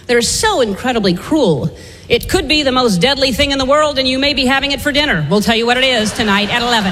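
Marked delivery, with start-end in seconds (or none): 2.1-6.9 lightly voiced TV newscaster; news teaser voice. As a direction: tease the late story like a local anchor. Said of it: "They do these teases".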